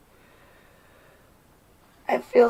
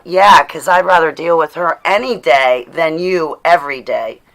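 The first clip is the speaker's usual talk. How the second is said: angry retort; 5 dB louder than usual. Acted. Telling off a mother figure.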